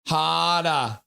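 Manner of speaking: put-on Brooklyn accent. Quoting the movie for chat in a mild Brooklyn accent. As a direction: toss off a Brooklyn "harder, harder" as a quick impression. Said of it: "in that Brooklyn accent".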